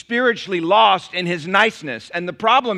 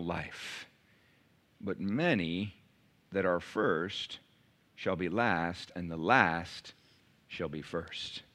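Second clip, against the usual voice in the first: scripture reading. Acted. Reads scripture passage aloud.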